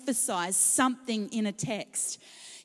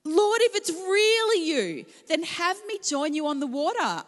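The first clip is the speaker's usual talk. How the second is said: high, loud call across the water; shouted out; 5 semitones higher, 4 dB louder than usual. Acted. Peter calling to Jesus on the lake, shouting. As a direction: call out to him over the storm. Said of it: "Peter shouted out".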